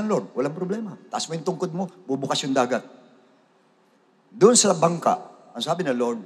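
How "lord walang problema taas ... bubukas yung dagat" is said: a hint of the Lord's calm reply, softer; God answering Moses' anxious prayer, lightly reassuring; calm reassurance. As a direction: gently tell him there is no problem. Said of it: "sinabi sa kanya".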